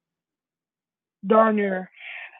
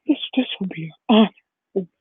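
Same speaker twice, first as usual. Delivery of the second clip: mock tearful; much faster than usual. Retold Deku crying in the corner.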